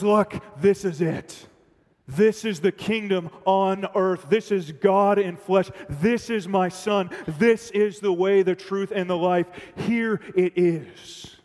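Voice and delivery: loud, slow, proud declaration; proud announcement. Pretend. God proudly presents his Son to the crowd, loud and slow. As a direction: proclaim each line slowly and loudly.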